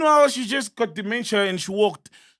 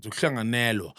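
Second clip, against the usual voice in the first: put-on Zulu accent; 11 semitones lower, 6 dB quieter than usual. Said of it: "She's saying it with a Zulu accent".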